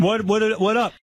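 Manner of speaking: very high, tripping, stuttering repetition of hello. Doing an impression of Samuel L. Jackson on request: Samuel L. Jackson impression. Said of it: "Does he sound like him?".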